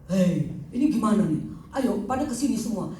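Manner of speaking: lightly voiced grandiose king; imitated patient playing king. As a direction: order the crowd about like a king. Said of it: "dia jadi kayak seperti raja".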